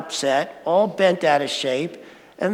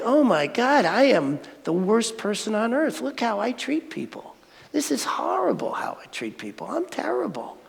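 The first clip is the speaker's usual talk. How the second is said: hushed, miserable self-blame, much softer; self-loathing; 3 semitones higher, 7 dB quieter than usual. Retold or imitated. Man retelling how he once scolded himself, hushed despair. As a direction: berate yourself under your breath. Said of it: "beat myself up and put myself down".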